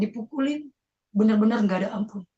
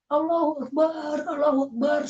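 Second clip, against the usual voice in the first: high, drawn-out cry, held back in volume; re-enacted cry; 7 semitones higher than usual. Beaten son crying out to God, high re-enacted wail. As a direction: imitate crying out to God under blows. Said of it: "saya berteriak".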